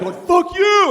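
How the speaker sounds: high, sharp fuck you; angry retort. Retold or imitated. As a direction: spit it back at him. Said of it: "he's like".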